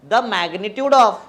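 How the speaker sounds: drawn-out, very slow words; slow teacher-led recitation; recitation prompt. Real, not acted. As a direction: prompt the class with each word stretched. Leading class in repeating definition.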